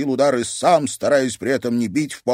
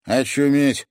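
amazed exhale; 5 semitones higher, 5 dB louder, slower than usual. A narrator's reading. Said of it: "выдохнул Бельцев".

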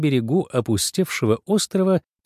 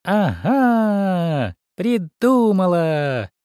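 higher squeak, drawn out slowly; squeaky delight; 7 semitones higher, much slower than usual. Acted. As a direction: squeal out a bright idea. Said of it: "а потом как пискнет". (мышь радостно пищит: «Ага, придумала!»)

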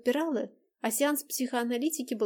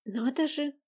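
surprised; 4 semitones higher than usual. Acted. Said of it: "удивилась Дайнека".

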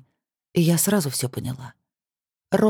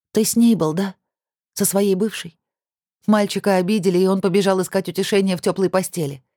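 raised, bitter accusing voice; bitter accusation; 4 semitones higher than usual. Acted. Heroine confronts Kir about his ex, bitter raised voice. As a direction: throw the betrayal back at him.

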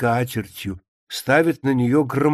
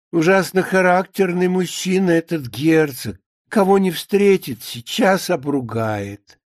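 emphatic, lively romance reading; lightly voiced absorbed reader; maid engrossed in a novel; 4 semitones higher than usual. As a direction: read on eagerly, relishing the coming scene.

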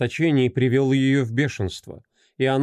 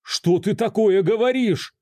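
higher disbelieving cry; horrified question; 9 semitones higher than usual. Acted. A shocked husband demands what his wife means, aghast. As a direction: ask it aghast.

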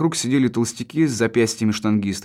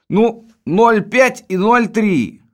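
slow explaining; 10 semitones higher, 5 dB louder, much slower than usual. Acted. Explaining bottle sizes slowly.

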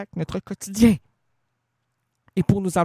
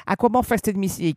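pitched higher and pushed; heated question; 4 semitones higher, much faster than usual. Shown as a demonstration. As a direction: fire the question out.

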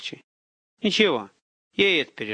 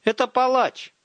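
thrown loudly; 10 semitones higher, 3 dB louder, slower than usual. A narrator's reading. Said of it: "громко бросает Ира через плечо".

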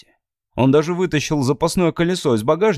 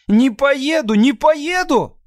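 much higher, louder fierce cry; 14 semitones higher, 4 dB louder, slower than usual. Acted. Abby fiercely refusing to go home to her father. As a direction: hurl the refusal at him. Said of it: "свирепо повторила Эбби".

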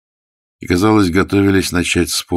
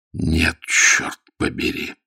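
weak refusal; much slower than usual. A narrator's reading. Dying man refuses confession.

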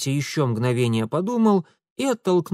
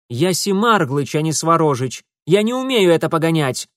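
higher, louder objection; loud protest; 4 semitones higher, 5 dB louder than usual. Acted. Urusov refuses to drive the steam cart, loud protest. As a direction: protest helplessly at being handed the controls.

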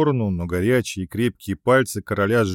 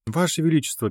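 squeak; 7 semitones higher, faster than usual. A narrator's reading. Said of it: "пискнула Рина".

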